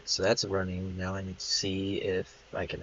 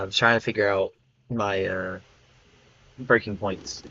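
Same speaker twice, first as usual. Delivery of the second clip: speaking up clearly and louder; 5 dB louder than usual. Real, not acted. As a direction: project louder so the mic catches it. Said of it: "There you go".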